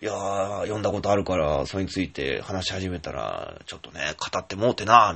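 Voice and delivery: lightly imitating a Kansai friend; bad Kansai accent. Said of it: "ひどい関西弁でね".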